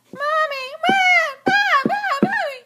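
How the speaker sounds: yelling across the room. Pretend. Child calling for mother.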